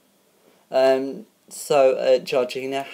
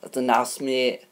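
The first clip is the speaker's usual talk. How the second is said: put-on Yorkshire voice; Yorkshire accent. Shown as a demonstration. Host thanking grandma's housemate pick, Yorkshire accent. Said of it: "let me talk in my Yorkshire voice".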